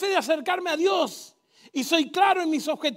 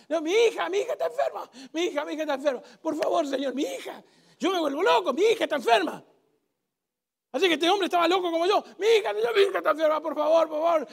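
louder, begging father pleading for his sick daughter; desperate father; 4 dB louder than usual. Acted. Father begging Jesus to heal his daughter, desperate and loud. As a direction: beg like a frantic dad.

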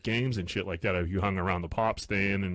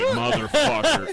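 high, drawn-out exasperated cry; frustrated outburst; 5 dB louder, slower than usual. Retold or imitated. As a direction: stretch the curse out in laughing outrage. Retold outburst at the heckle.

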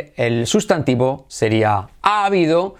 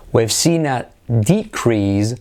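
DEcrease as a noun, said slowly; stress on first syllable; 2 semitones lower, slower than usual. Shown as a demonstration. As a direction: lean on DE in decrease. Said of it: "acentuamos la primera sílaba". (decrease lento, con acento en la primera sílaba)

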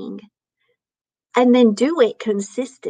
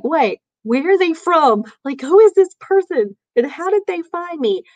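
excited questions; 7 semitones higher than usual. Retold or imitated. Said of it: "Then it was like".

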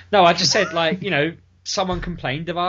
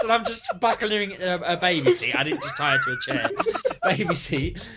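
ordinary delivery

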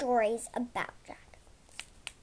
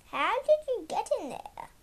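gasping; 7 semitones higher than usual. Acted. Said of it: "gasped Edgar".

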